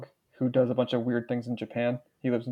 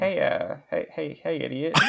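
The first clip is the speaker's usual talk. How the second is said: obnoxious bully voice; 2 semitones higher, slower than usual. Acted. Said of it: "now do the other bully, like, the more obnoxious one".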